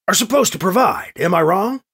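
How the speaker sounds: close to losing it. Acted. Harried governor to both advisers, close to losing it. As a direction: challenge them with a touch of irritation. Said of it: "Edwards is close to losing it".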